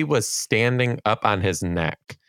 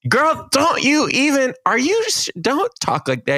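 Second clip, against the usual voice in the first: squeaky, put-on outrage; mock scandalized. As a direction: play shocked and tell them off. Mock scolding over racy talk.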